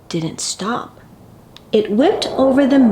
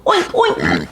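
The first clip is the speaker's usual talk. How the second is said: very low, grunting oinks; shouting pig. A narrator's reading. Pig shouts at the howling wind, deep oinking. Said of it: "he shouted at the howling wind".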